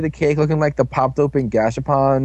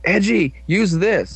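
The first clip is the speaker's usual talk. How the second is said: higher, drawn-out call to a teammate; lightly acted urgent command; 5 semitones higher, slower than usual. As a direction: call out the order slowly, pitched up. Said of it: "He's like".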